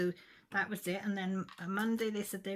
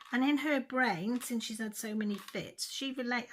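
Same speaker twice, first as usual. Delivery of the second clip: higher and louder, reliving the fury at the nurse; retold furious outburst; 6 semitones higher, 6 dB louder than usual. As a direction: snap it back at her like you did that day. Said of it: "Well, I lost it".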